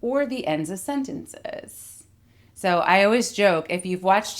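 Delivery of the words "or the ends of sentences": creaky fry at the end; vocal fry. Shown as a demonstration. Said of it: "this can happen at the ends of phrases".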